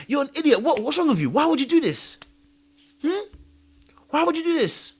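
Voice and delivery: high-pitched exasperated self-reproach; shaming himself. Retold or imitated. Asking himself why he did this, angry and shaming. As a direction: berate yourself in incredulous questions. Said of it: "You start shaming yourself".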